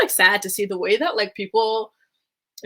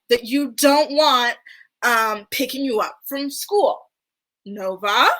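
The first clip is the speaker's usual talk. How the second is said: slow, raised, hammed-up question; mock coaching mom; 3 semitones higher, 4 dB louder, slower than usual. Mother feeding her daughters a question, exaggerated slow coaching. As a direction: spell it out slowly like a stage mom.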